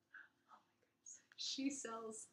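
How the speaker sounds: soft teasing whisper; whispered pun. Shown as a demonstration. To listeners, teasing the yarn name, whispered pun. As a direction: slip the pun in under your breath. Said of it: "Get it?".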